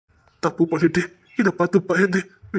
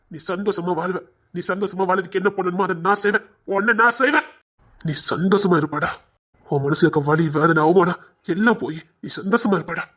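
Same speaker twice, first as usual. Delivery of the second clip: reassuring; 2 semitones lower than usual. Acted. Brother consoles crying younger brother.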